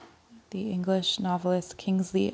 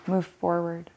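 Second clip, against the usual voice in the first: even verse reading broken into short phrases; poem recitation. Acted. Reader reciting a poem about visiting a church, poem recitation. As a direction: set out each image with a small pause. Reads a Larkin poem aloud.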